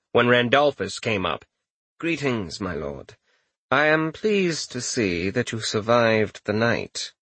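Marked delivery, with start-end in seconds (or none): 2.0-7.1 prim, disapproving servant voice; disapproving chamberlain. Acted.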